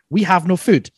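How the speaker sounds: high, loud panicked cry; mock panic. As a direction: squeal it in mock alarm. Imagined ant panic.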